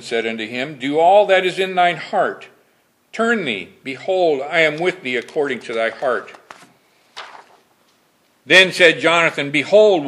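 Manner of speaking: solemn pulpit reading of scripture. Acted. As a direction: read the King James verses with solemn weight. Preacher reads scripture aloud.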